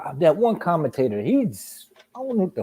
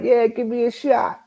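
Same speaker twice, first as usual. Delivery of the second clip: mock eager drinker; 8 semitones higher than usual. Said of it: "The motherfucker was like".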